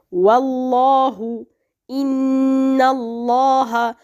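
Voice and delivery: slow "Wallahu, inna Allaha" with heavy, dark lam; emphatic tafkhim. Shown as a demonstration. Teacher showing lam after fatha, slow heavy tafkhim. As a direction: draw out the full-mouthed l in "Allaha". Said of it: "it will be read, uh, with emphasis".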